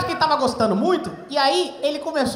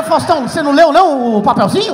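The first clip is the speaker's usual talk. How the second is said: loud protest; 7 dB louder than usual. Retold or imitated. Comedian protesting to Faustão.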